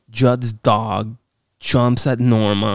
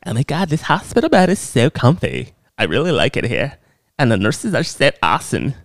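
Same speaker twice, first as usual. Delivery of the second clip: mock Norma; 2 semitones higher than usual. Norma voiced in hospital bed.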